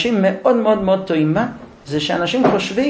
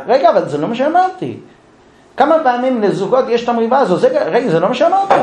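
exasperated husband; 6 semitones higher than usual. Acted.

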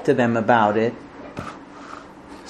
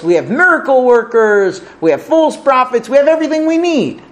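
mock incredulity; 3 semitones higher than usual. People scoffing at Yirmiyahu's warning of destruction, mock incredulity. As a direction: brush the warning off as an overconfident crowd. Acting out people dismissing the prophet.

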